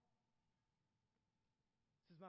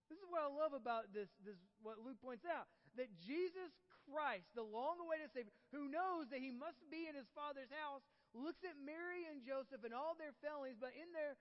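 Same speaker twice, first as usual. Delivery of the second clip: raised, louder preaching voice; fervent sermon build; passionate preaching; 8 semitones higher, 7 dB louder than usual. Real, not acted. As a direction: preach it out with fire. Preaching at full force.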